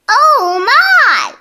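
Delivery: a high, alarmed little cry of shock; gasping cry. A narrator's reading. Ducky Lucky hears the news, high alarmed cry. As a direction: gasp it out like a flustered duck. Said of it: "cried Ducky Lucky".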